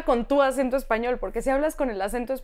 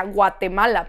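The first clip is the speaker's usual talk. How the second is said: imitated roommate's heavy accent on Guatemala; marked accent on Guatemala; 4 semitones lower, 3 dB louder than usual. Imitating roommate saying where she's from, heavy accent. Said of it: "pero con un acento".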